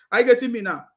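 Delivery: fast, laughing are you getting me; a quick laugh through the question. Real, not acted. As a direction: chuckle it at the viewers. Laughs while asking viewers.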